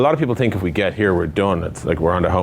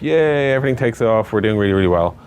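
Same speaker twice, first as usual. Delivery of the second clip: mock cheering; 3 semitones higher than usual. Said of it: "you'll be like".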